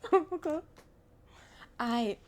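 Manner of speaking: high, loud laughing oh; nervous laugh. Acted.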